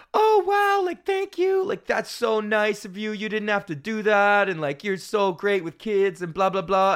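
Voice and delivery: high-pitched mock gushing; exaggerated high-voiced thanks, easing down slightly; gushing parents. Acting out gushing grateful parents.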